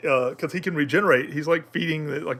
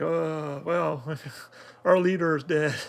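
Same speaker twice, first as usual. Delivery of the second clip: a halting, deflated reply that breaks into a laugh; mock dazed orcs; 3 dB quieter, slower than usual. Defeated orcs answer the victory cheer, laughing. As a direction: play the stunned orcs while laughing. Orcs react to the leader's death.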